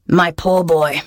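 lightly acted tearful pity. A narrator's reading. Pirate captain consoles the lad, mock-tearful. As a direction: pity him with a touch of tears. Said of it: "said Tomb with tears in his eyes".

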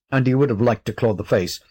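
plain reading voice

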